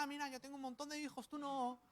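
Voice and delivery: high, fast, sing-song jeer at a rival; mocking taunt. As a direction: gloat over her like a spiteful co-wife. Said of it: "se burlaba de Ana".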